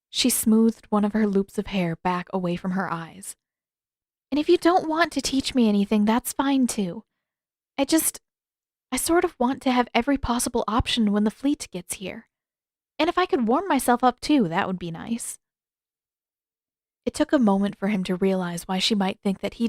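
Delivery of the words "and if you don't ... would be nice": put-on higher girl's voice, insistent; stubborn young waterbender pleading her case; higher eager insistent voice; Katara, frustrated.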